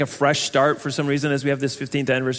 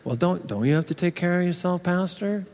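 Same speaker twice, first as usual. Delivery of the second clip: quieter, a gently doubting churchgoer; softer doubting objection; 6 dB quieter than usual. Retold or imitated. A listener gently objects to the pastor, softer and doubtful. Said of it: "looking at me like".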